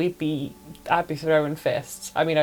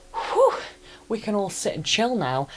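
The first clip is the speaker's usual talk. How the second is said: relief; 4 semitones higher than usual. Retold or imitated. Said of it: "and you think".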